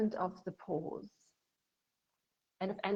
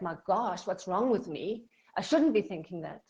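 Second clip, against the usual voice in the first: self-scolding; 6 dB louder than usual. Shown as a demonstration. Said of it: "not with judgment".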